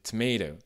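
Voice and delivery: tomato with the second T almost a D, tomado; flapped T. Shown as a demonstration. Teacher showing the American flapped T in tomato. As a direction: soften the middle T of tomato into a D. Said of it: "C'est quasiment un D".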